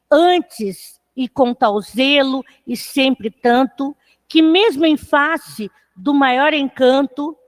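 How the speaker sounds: slow, measured sonnet reading; poem recitation. Acted. Teacher reads a Vinícius de Moraes sonnet to students, poem recitation. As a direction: recite the verse with deliberate pauses.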